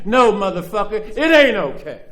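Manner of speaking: firm, loud rebuke. Real, not acted. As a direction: punch it down hard, no excuses. Rebuking a soft attitude.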